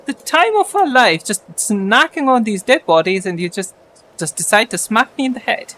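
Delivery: high, loud indignant spider voice; angry spider. Acted. Spider complaining to the party, high and loud. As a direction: squeak out a spider's outrage at being smacked.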